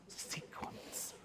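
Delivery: Sequence whispered with relish; passionate whisper. Shown as a demonstration. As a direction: make them long to know Sequence. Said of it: "I want sequence".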